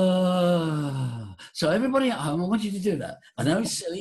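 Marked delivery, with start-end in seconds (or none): 0.0-1.2 long voiced "uh" on the breath; cow-like held tone. Shown as a demonstration. Teacher models a silly exercise for everybody at home, long cow-like drone. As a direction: drone out one sustained breathy moo. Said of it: "You sound like a blue cow".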